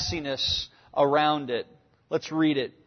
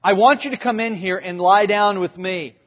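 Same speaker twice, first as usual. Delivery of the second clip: firm, insistent demand; woman insisting he come lie with her, demanding; 2 semitones higher, 6 dB louder than usual. Retold or imitated. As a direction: push the demand hard. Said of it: "She demands it of him".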